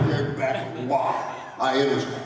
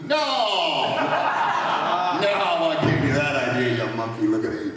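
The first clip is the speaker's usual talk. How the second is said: angry retort. Retold or imitated. Acted retort in retold quarrel.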